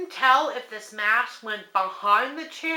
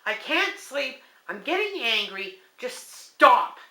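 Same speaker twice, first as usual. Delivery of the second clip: firm plea; 3 semitones higher than usual. Retold or imitated. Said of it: "I said out loud".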